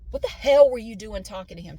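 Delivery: put-on jealous boyfriend's loud demand; angry retold demand. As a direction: bark the accusation at her. Angry boyfriend confronts her.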